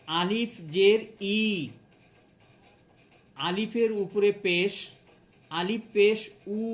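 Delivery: "আলিফ জবর আ", letter and sign named, pause, then the sound; "আলিফ পেশ উ" chanted out as a teaching model, rising before the vowel; spelling-out demonstration. Shown as a demonstration. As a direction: recite "আলিফ জের ই" piece by piece for learners. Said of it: "এভাবে পড়ব".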